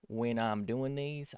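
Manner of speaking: slow, drawn-out hint of a Southern accent; accidental southern twang. Real, not acted. Streamer asking viewers for tablet help, slipping into a southern twang. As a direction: let a little Southern accent slip in, slowly. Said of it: "I don't know why I'm turning southern".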